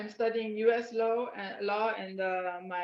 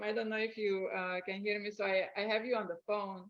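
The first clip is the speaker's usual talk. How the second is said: faint audio; 3 dB quieter than usual. Real, not acted. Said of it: "very faint".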